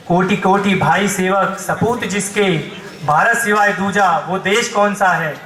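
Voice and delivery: measured, declamatory patriotic verse; poem recitation. Acted. Poet asks the crowd which land this is, declaiming. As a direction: recite it in stately, ringing cadences.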